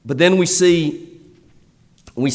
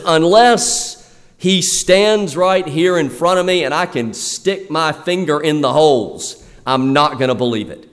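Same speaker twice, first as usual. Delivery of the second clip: 1 stubborn Thomas, lightly voiced; 3 semitones higher than usual. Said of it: "He says".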